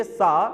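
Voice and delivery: سا بصفير واضح; sa demonstrated. Shown as a demonstration. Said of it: "जब आप सा बोलते हैं".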